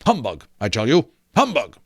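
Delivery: lightly voiced Scrooge, scornful, rising to a sharp humbug; a hint of a sneering old miser; Scrooge scoffing. Scrooge dismissing the ghost, lightly voiced scorn.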